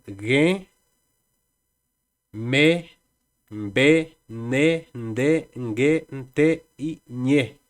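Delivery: slow, clear nasal consonants; nasal consonants sounded out. Shown as a demonstration. Teacher to students, reading nasal consonants. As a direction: say "me", "ne", "ñe" through the nose. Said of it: "consonantes nasales".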